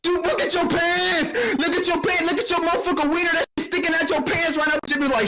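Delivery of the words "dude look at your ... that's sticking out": shout. Real, not acted. Shouting at the pants.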